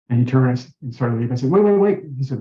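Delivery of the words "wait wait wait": higher, louder retold plea to stop; urgent calling out. Patient calling after the departing priest, urgent retold call. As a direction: call someone back as they leave.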